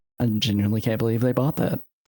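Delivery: muttered under the breath. Speaking in character to the party: said under the breath. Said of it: "I say under my breath to you guys".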